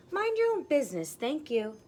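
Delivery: high, loud, cheeky retort; sassy little pig. Acted. Little pig snubbing the straw man, high and loud. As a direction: brush the man off with a high snippy voice.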